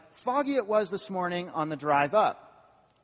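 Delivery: slow, lightly voiced Yoda word order; a hint of Yoda, drawn out. Pastor imagining Yoda on the morning drive, lightly voiced. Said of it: "Yoda might have said something like".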